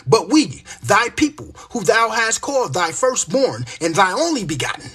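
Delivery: loud, emphatic scripture reading; street-preacher reciting scripture; scripture declamation. Acted. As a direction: preach the verse out forcefully.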